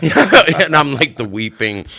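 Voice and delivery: high, loud, slow mock wail; mock weeping. Lawyer's client hamming up weeping, high loud wail. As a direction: ham up a theatrical sob. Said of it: "weeping fruity man".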